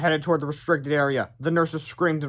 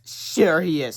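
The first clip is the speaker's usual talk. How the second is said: sarcastic; much slower than usual. Acted. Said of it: "said the nurse sarcastically".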